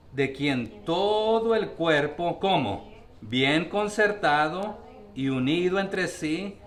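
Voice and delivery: measured, slow reading of the verse; slow scripture reading. Acted. Pastor reading the verse slowly to the congregation. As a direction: lay each phrase out slowly for the congregation.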